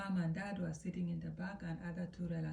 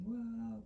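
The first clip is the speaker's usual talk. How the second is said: higher-pitched imitation wail; mock wailing cry; 4 semitones higher than usual. Storyteller imitating the betrayed wife, mock wailing. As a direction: mimic a wailing wife without real force. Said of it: "the wife started yelling, screaming".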